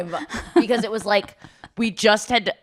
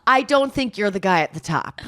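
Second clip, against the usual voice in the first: a touch of a cool put-down, slightly held back; first try at the comeback, a bit understated; mock snide retort. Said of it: "he goes".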